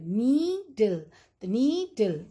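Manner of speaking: नीडल split as long "nee", then short "dil"; teacher breaking नीडल into its two syllables; divided into syllables. Shown as a demonstration. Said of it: "syllables में divide करेंगे".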